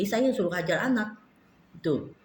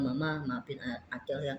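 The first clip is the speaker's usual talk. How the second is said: put-on a child begging forgiveness softly; tearful apology; 3 semitones lower, 6 dB quieter than usual. Son apologizing in tears.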